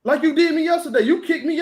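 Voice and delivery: teasing payback through a laugh; laughing tease. Real, not acted. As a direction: rub it in while laughing. Host teasing guest about yesterday.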